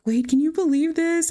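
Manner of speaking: high-pitched, excited disbelief; amazed mom. Acted. Mom turning to Wade about the pregnancy news, amazed. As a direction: play thrilled amazement, voice shooting up.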